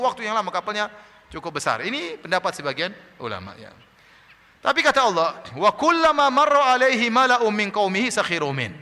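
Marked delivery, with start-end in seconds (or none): 5.5-8.7 loud, raised Arabic recitation; Quran recitation. Acted. Preacher quotes God on the mockers, forceful recitation. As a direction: recite the verse out strongly, high and loud.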